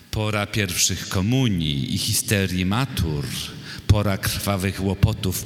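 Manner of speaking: measured, solemn reading of a poem; poetry recitation. Acted. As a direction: recite verse line by line, with deliberate pauses. Poet recites own poem. (recytacja wiersza)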